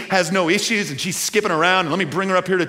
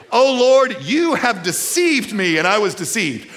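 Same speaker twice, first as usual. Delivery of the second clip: anguished lament; 5 semitones higher, 4 dB louder than usual. Acted. Pastor reads Jeremiah's lament.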